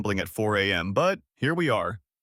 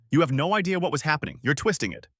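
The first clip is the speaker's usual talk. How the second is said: angry; 4 semitones higher, faster than usual. Acted. Girlfriend furious in argument.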